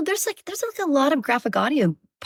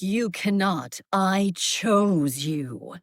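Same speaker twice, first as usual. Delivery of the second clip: dragon's line; much slower than usual. Shown as a demonstration. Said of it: "my last line from that book".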